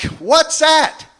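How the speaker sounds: high squeaky alarmed what's that; shocked question. Retold or imitated. Comic asking his doctor, shocked and high-pitched. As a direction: play it up as a startled patient. Comic playing naive patient.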